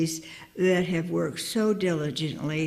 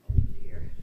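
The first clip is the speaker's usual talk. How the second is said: shaky sigh. Real, not acted. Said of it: "I'm a little wobbly".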